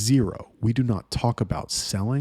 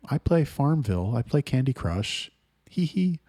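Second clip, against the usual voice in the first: put-on ditzy girl; 5 semitones higher than usual. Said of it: "They're like".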